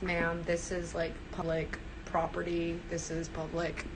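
quietly pushing back on Karen; the other part. Acted. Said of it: "play the other part where I'm like".

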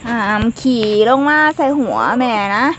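loud motherly telling-off; scolding warning. Real, not acted. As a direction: warn them loudly, demanding to be heard. Warns bird not to mess on her. (ดุเสียงดังแบบแม่สั่งห้าม)

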